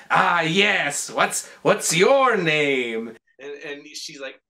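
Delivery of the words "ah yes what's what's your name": slow, drawn-out character voice; mock vampire making stretched-out small talk; Count Orlok. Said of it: "then he goes".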